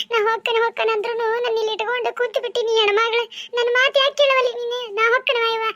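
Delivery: acted tearful pleading with mother; tearful complaint. Daughter asks mother why she should stay, tearful complaint. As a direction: plead through tears, wounded and reproachful. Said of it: "ಅಳಬೇಡ ತಂಗಿ".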